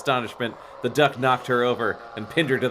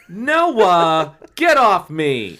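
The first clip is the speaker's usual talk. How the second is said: loud, demanding cry; 6 semitones higher, 7 dB louder, much slower than usual. Acted. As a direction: order him off her, loudly. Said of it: "she demanded".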